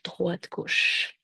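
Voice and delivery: droite, gauche whispered softly; hushed droite gauche; whispered count. Real, not acted. Counting steps in downward dog.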